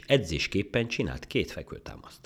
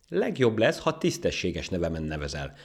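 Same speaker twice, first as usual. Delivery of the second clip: cross; 5 semitones higher, 5 dB louder than usual. Acted. Ant demanding its proper name, cross. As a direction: insist crossly on respect. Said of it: "mondta mérgesen a hangya".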